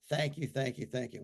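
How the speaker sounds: quiet yes and thank yous; soft thanks. Shown as a demonstration. Ending the repeated affirmation with hushed thanks. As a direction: drop to a murmur of gratitude. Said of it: "eh, you ready?".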